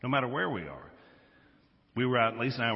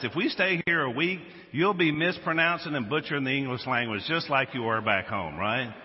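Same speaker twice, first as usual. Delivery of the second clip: playful, louder mock scolding; retold comic telling-off; mock indignation; 2 semitones higher, 4 dB louder than usual. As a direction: call someone out in pretend outrage. Acted mock confrontation with hotel worker.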